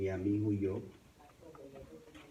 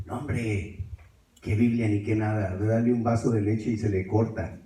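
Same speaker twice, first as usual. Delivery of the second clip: cuñado desdeñoso; 6 dB louder than usual. Retold or imitated. Cuñado replica con desdén a gritos.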